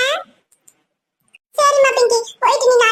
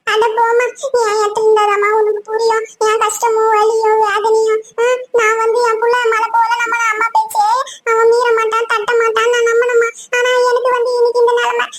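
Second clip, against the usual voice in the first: acted tearful lament. Hurt mother pours out her pain to Thamarai, tearful lament. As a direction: lament through tears, dragging the words. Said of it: "அழுதுன்னுக்கிறீங்களே".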